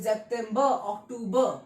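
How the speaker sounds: सितंबर and अक्टूबर ending in a short "buh"; both सितंबर and अक्टूबर with R dropped to a schwa; alternative German reading. Shown as a demonstration. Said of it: "ऐसे भी पढ़ते हैं".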